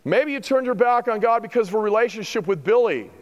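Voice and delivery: high, emphatic rhetorical questioning; challenging preaching. Real, not acted. Preacher challenging congregation on whom they pray to, emphatic. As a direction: press the congregation with pointed questions.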